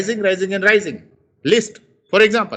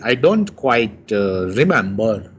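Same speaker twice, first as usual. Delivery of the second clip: hesitant; 7 semitones lower than usual. Shown as a demonstration. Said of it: "when you have doubt".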